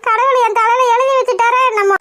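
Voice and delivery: wailing about her fate; self-pitying lament. Acted. Mother lamenting her fate before sister-in-law, wailing. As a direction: moan it like a dirge.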